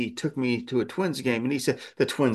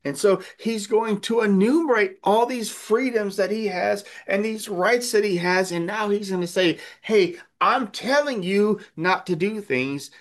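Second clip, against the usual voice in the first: raised, fervent preaching voice, higher in pitch; 9 semitones higher than usual. Acted. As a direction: preach it with rising conviction. Preacher voicing Paul, raised.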